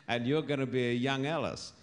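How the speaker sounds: words bubbling through a real laugh. Real, not acted. Preacher teasing widow Alice about heaven, laughing. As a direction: laugh as you promise her youth again.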